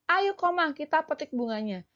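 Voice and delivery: a hint of an excited child urging; lightly voiced Lani. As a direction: coax your friend along. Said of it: "mengajak Komang".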